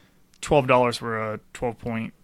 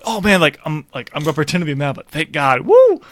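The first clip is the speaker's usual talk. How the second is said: excited; 3 semitones higher, 4 dB louder than usual. Retold or imitated. Voicing the relieved captain.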